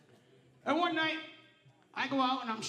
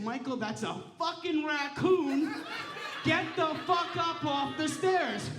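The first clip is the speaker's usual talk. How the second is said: husband yelling; 3 semitones higher than usual. Retold or imitated. Husband warning him off the raccoon, mock yell. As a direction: bark it like a panicked husband. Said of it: "He said".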